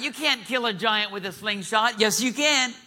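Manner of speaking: preacher arguing with a doubter, high and forceful; emphatic rebuttal. Acted. Voices doubt, then answers it emphatically.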